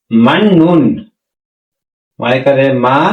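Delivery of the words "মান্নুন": "মান্নুন" with a held double n; assimilated n pronunciation. Shown as a demonstration. Teacher answers how it is pronounced, clear double n in "মান্নুন". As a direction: say "মান্নুন", first syllable ending in n, not t. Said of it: "তাহলে এখানে আমাদের উচ্চারণ কি হবে".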